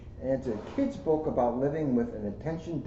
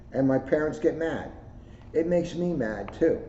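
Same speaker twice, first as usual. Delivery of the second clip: gentle storybook read-aloud; reading to children; 3 semitones higher than usual. Acted. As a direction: read it like story time for kids. Reads a kids' book aloud.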